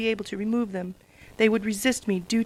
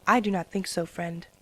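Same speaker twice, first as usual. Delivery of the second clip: flatly; 2 semitones lower than usual. Acted. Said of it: "Princess Celestia said flatly".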